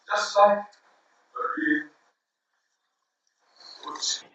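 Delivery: slow, trailing off to a hush; drawn out, fading away. Real, not acted.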